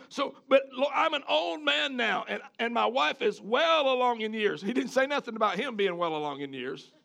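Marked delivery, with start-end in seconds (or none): 0.1-4.6 whiny excuse. Retold or imitated. Zechariah to the angel, complaining and excuse-making. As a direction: plead age like a grumbling old man. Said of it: "He says".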